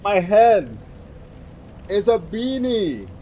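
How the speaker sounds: laughing. Real, not acted. Joking, laughing.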